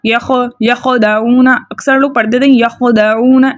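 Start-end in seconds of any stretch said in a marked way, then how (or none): 0.1-1.7 यखदाऊना with an extra vowel after kh, as "yakho-da"; wrong kh release. Shown as a demonstration. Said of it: "ऐसे नहीं पढ़ना". 2.6-3.6 यखदाऊना with a stray vowel bounced after kh; common wrong reading. Retold or imitated. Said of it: "ऐसे अजीब".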